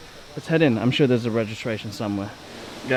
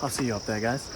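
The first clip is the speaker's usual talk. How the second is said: winded, quiet, climbing; breathless after the stairs; out of breath; 5 dB quieter than usual. Real, not acted. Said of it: "I'm so puffed out".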